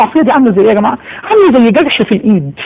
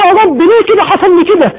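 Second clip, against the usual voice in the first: anguished cry; 9 semitones higher than usual. Retold or imitated. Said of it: "ويصيح المستغيث".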